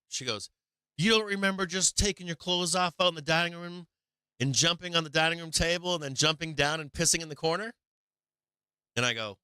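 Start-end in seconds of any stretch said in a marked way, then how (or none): 1.0-7.7 retold accusation. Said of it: "she's yelling at me".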